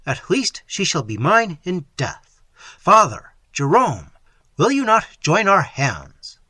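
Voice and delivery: loud, high pleading cry; passionate cry. Acted. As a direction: beg the friar, loud and slow at the end. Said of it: "he cried".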